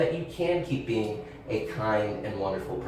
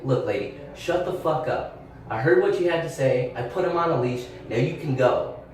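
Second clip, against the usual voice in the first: retold telling off. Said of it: "where I was an asshole".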